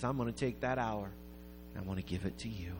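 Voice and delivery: low, soft and heartfelt; sincere retold offer. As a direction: offer it gently, as a gift. Giver offering his labor.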